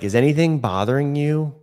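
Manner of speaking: polite chairside check-in; sample patient question. Shown as a demonstration. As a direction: ask the patient kindly. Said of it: "So we say things like".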